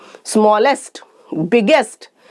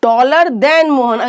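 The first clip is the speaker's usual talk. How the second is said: slow example; much slower than usual. Shown as a demonstration. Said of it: "teacher repeats example".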